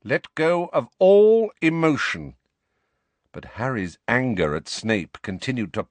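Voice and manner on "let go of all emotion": cold command, stressed all. Acted. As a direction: lay it down icily. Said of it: "said Snape's cold voice".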